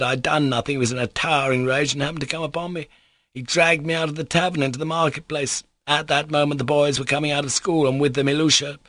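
high-pitched, agitated storytelling; excitable man explaining himself; voluble captain. Acted. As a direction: pour out a humiliating tale, pitch held up. Captain telling his humiliation.

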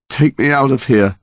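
a touch of desperation; shaken plea. A narrator's reading.

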